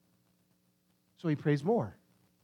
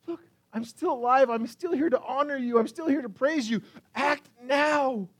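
higher-pitched, insistent appeal; urgent plea; 6 semitones higher than usual. Acted. Psalmist begs God to act while still alive, pleading. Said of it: "It's a plea for God to act".

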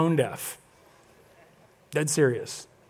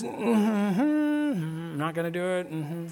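stubborn refusal; 8 dB quieter, slower than usual. Retold or imitated. Refusing, lips closed.

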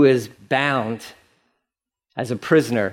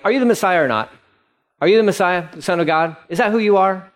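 frustrated high priest; 6 semitones higher, faster than usual. Acted. Frustrated high priest questioning Jesus.

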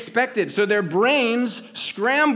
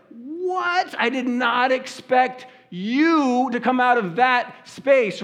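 high, slowed, amazed "what"; surprised; 4 semitones higher, slower than usual. Retold or imitated. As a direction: pitch jumps up in glad surprise. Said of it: "Carmen surprised me at an airport".

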